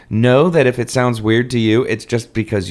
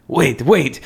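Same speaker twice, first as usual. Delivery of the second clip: put-on French accent; 3 semitones higher than usual. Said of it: "my incredibly accurate French accent".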